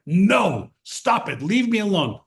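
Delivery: mildly cross imitated mother; retold annoyed refusal, understated; a little angry. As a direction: protest with a touch of anger. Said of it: "she's getting a little angry".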